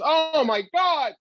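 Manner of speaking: high, slow, loud Gary Marshall voice; mock amazed exclamation. Gary Marshall marvels at the comedian's happiness, high and slow. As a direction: gush it up high like an astonished producer.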